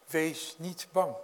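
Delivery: slow, steady reassurance; reassuring. Acted. Jesus calming his frightened disciples, slow and steady. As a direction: let each word settle calmly.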